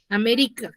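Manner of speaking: América as a-MÉ-ri-ca, weight on ME; stress on second syllable of América. Shown as a demonstration. Teacher compares possible stresses for students, América stressed on ME. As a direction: put the emphasis on ME in América. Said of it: "esa sílaba la debo de pronunciar con mucho más énfasis".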